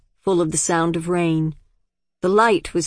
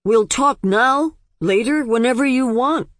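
desperate eagerness; 7 semitones higher, 3 dB louder than usual. Acted. Father desperately agrees.

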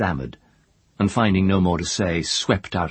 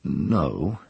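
reluctant; 2 semitones lower than usual. Acted. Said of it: "he said rather reluctantly".

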